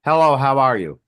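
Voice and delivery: mock Japanese movie voice; Japanese movie imitation. Shown as a demonstration. Showing friends a Japanese movie, mock movie voice. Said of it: "here's a Japanese movie".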